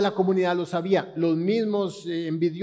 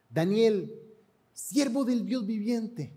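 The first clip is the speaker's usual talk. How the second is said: a mildly sad call, a little higher on siervo; sad, hopeless call; 3 semitones higher than usual. Acted. King calls Daniel into the lions' pit, mildly sad. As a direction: call out to Daniel with faint hope, understated. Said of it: "llamó a voces a Daniel con voz triste".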